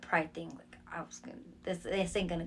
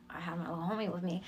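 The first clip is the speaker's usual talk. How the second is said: whispered aside; 2 semitones lower, 6 dB quieter, faster than usual. Acted. Whispered to the host about the homie along. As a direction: let the audience in on a secret. Repeating a line as a secret aside.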